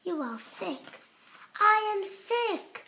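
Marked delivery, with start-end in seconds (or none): 1.6-2.8 happy, higher, louder and slow; delighted. Acted. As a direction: savour the good news. Piggie delighted by the news.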